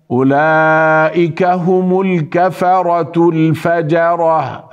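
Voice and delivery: slow, measured tajweed recitation; Quran recitation. Shown as a demonstration. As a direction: recite with long drawn vowels. (تلاوة مرتلة بالتجويد)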